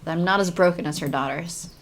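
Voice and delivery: earnest young heroine, lightly voiced. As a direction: read it as the game's heroine. Reads heroine's lines in game.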